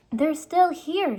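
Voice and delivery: high, slow, delighted; girl surprised to find the books; amazed. A narrator's reading. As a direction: marvel at the books. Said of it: "she said".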